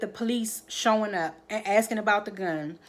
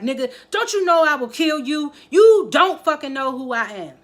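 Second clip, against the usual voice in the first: a big angry yell, higher and louder; furious threat; 6 semitones higher, 8 dB louder than usual. Retold or imitated. Ghost choking Tate, threatening to kill him, yelling. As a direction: roar the death threat.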